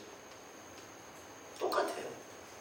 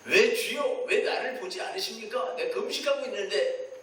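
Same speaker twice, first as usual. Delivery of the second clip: louder, higher protest to God; mock indignant demand; demanding complaint; 3 semitones higher, 3 dB louder than usual. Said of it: "그러니까 따지는 거예요".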